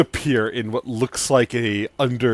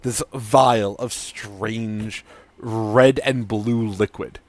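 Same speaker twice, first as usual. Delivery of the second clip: much higher and louder eager pitch; mad scientist Sidon; 4 semitones higher, 9 dB louder than usual. Acted. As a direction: sell the potion like a gleeful mad scientist.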